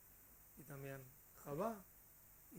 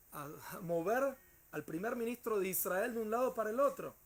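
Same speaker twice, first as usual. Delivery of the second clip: excited telling; 5 semitones higher, 8 dB louder than usual. A narrator's reading. Retelling the shaking of Rabin.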